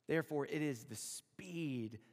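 slow, breathy whisper; whispered aside. Acted. Preacher to the congregation, a slow hushed whisper. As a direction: let it drop to a hushed secret. Quiet aside on God's pace.

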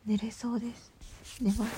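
half-asleep whisper; drowsy breathy whisper; nodding off. Real, not acted.

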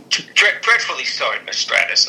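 put-on half-baked British accent, stammered start; attempted Regal accent. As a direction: try a British accent and stumble into it. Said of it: "I'm not doing accents".

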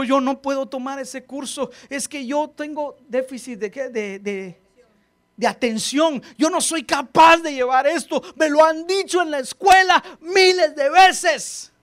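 rising into a whiny protesting shout; excuse-maker voice. Retold or imitated. Pastor mimics a timid student's excuses. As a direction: act out a scared student making excuses.

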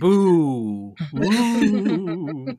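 loud whooping cheer, rising; playful cheer. Pretend. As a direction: whoop it up like a fan. Co-host cheers loudly in the intro.

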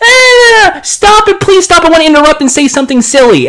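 squeaky mock whine, rushed at the end; mocking whiny co-host. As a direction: mimic him as a whiny interrupter. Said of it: "all you do is just fucking go".

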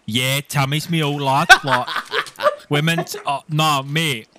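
lads' banter in a fake Liverpool accent; cheeky roadman Scouser, lightly put on; put-on Scouse accent. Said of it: "props to you, Luke. That was good".

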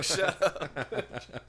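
loud high snap; snapping. Pretend. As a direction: cut her off sharply. Acted doctor snapping at patient.

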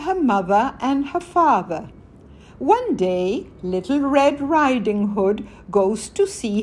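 put-on reading aloud to children; story narration. A narrator's reading. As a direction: tell the fairy tale gently to kids.

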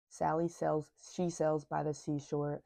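retainer in mouth; tongue twister through a retainer; talking with a retainer. Real, not acted. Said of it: "with my retainer in".

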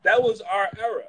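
high, loud comedian's voice; Chris Rock. Acted. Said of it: "have a Chris Rock accent".

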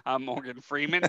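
lightly voiced bad impression; a hint of a solemn narrator; Morgan Freeman. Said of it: "my impression of Morgan Freeman".

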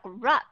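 "rup" with a clear short U. Shown as a demonstration. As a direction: say "rup" fully, stressed short U. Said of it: "đó là short U sound".

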